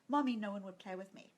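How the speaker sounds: put-on whispered like a hurt little child; sad child whisper. Child's sad complaint retold.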